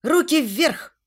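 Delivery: high, forceful command; demanding. A narrator's reading. Heroine trying to distract the gunman, high demanding shout. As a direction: call out an order to surrender. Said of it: "потребовала я".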